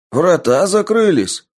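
high urgent shout. A narrator's reading. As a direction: yell it out in alarm. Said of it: "ответили ему".

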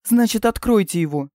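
high, loud retort; snapped back. Acted. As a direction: bark it back. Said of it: "рявкнула в ответ принцесса".

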